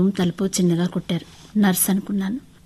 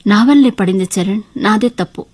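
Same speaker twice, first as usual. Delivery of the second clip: louder, distressed confession; tearful; 7 dB louder than usual. Acted. Wife confessing fault to husband, tearfully. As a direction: blame yourself with mild acted tearfulness. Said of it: "ఏడుస్తూ చెప్పాను".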